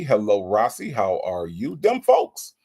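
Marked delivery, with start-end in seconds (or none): 1.8-2.5 hype shout-out. Real, not acted. Hyping up a chat member's name.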